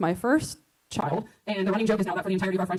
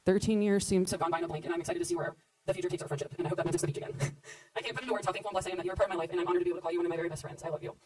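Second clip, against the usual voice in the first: wedding toast speech; 2 semitones lower than usual. Acted. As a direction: read it as a loving toast to the bride. Reads her toast.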